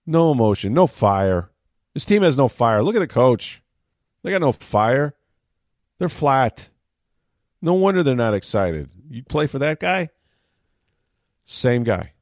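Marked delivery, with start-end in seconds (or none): 0.1-10.1 complaining critic, louder and higher; acted fan griping about the coach; mock outrage. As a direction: pile up the complaints in punchy bursts. Voicing critics of losing coach.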